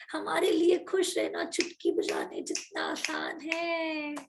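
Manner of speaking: mock lifeless chant of the affirmation; flat, unexcited. Shown as a demonstration. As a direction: say it like you don't care at all. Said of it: "अरे feeling कहाँ गई, excitement कहाँ गया".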